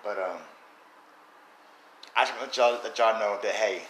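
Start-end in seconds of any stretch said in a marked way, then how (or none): 2.1-3.8 hiccuping between words; talking through hiccups. Real, not acted. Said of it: "I got the hiccups".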